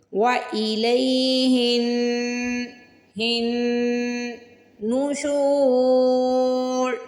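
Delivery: हिन held in the nose before नुशूर; slow recitation, nasal हिन, long शू; nasal hin. Shown as a demonstration. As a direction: hum हिन through the nose a beat. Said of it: "नाक में आवाज़ लेके जानी है".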